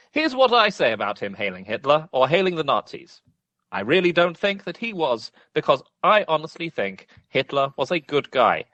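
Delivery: lightly posh reading voice; posh Bryce Mitchell. Acted. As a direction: read it like a posh gent. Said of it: "I'm going to do it as a posh re".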